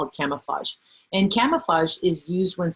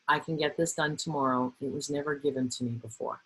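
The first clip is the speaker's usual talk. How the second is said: firm repeat; 2 semitones lower, 7 dB quieter than usual. Shown as a demonstration. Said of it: "you just say the same thing".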